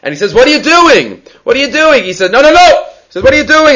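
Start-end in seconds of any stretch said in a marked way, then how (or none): 0.3-2.0 retold scream. Man in the dream challenging the scribe, mock screaming. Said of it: "they start screaming". 2.3-2.8 high, insistent mock protest; retold scream. Scribe in the dream answering back, mock screaming. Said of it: "they start screaming". 3.2-3.8 retold scream. Man in the dream challenging the scribe, mock screaming. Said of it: "they start screaming".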